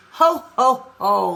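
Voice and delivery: loud jolly ho ho ho; Santa's ho ho ho. Acted. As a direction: boom out a jolly belly laugh. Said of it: "laughed Santa".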